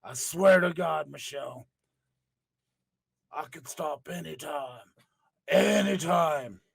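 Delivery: a hint of slow, pleading Undertaker; pleading husband. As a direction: swear slowly to his wife. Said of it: "Undertaker pleading to wife".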